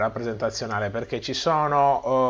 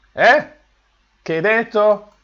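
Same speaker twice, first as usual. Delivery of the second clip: mock puzzled listener; 7 semitones higher, 7 dB louder, slower than usual. Listener can't hear the whisper.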